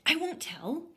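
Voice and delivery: high little bear pleading; begging. A narrator's reading. Baby Bear begging Goldilocks at the window, high. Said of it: "I begged".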